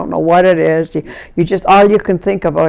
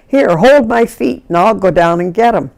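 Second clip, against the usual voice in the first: retold instruction; 3 semitones higher than usual. Rescuer telling her sister to hold on, decisive. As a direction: re-enact a take-charge request.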